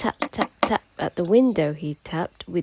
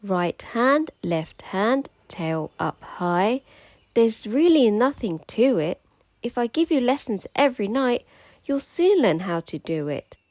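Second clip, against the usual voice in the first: a bit higher and louder, encouraging; lightly voiced acrobat; 4 semitones higher, 5 dB louder than usual. Annie teaching the mermaid to walk on hands, upbeat. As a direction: coach her like a plucky acrobat. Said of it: "Annie the acrobat".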